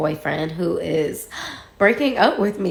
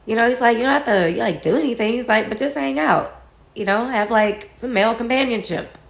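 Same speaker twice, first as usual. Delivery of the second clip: higher, light persuasive fatherly tone; coaxing dad, mildly voiced; 4 semitones higher than usual. Dad urging daughter to just hang out, mild coaxing. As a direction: gently nudge her to go out. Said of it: "my dad is like".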